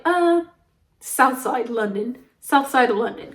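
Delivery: hesitant, put-on British accent; imitated British accent, improvising. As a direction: bluff slowly in a fake British accent. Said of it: "We were talking in an accent".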